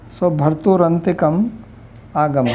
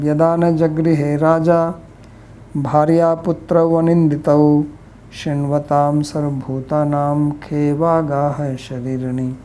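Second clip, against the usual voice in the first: put-on louder, measured chant of an old verse; Sanskrit verse recitation; 4 dB louder than usual. Teacher reciting the Sanskrit verse to the class, in a louder, measured chant. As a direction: intone the verse like scripture.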